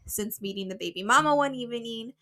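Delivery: reading while short of breath; breathless, catching air between phrases. Real, not acted. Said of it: "Why are you so out of breath?".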